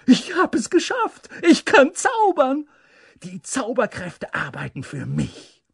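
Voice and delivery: high, loud boasting cry, easing at the end; exuberant shout. A narrator's reading. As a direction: crow in triumph at your own magic. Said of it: "schrie Humboldt übermütig".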